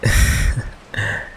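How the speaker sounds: awkward, mostly voiceless laugh; nervous laugh. Acted. Covering up to a date about the fridge, nervous laugh.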